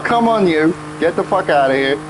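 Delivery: shooing a pet away; talking to the cat. Real, not acted. Streamer telling flies to leave, as if talking to the cat. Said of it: "That's how I talk to the cat".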